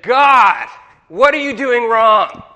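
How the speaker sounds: loud, high, anguished shout; desperate cry to God. Retold or imitated. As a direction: cry out to God in real distress. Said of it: "That was a real visceral prayer".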